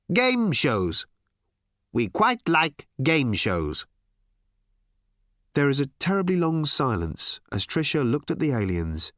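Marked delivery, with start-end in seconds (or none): 0.1-3.9 high, loud, slow odd alien. Acted. Aliens admitting to Tricia, slow alien drone. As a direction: drawl it out, strangely pleased.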